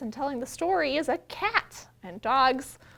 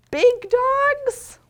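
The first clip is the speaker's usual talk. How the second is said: much higher and louder on big; big booming voice; 13 semitones higher, 12 dB louder than usual. Acted. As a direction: make big sound huge. Reading big dogs in book.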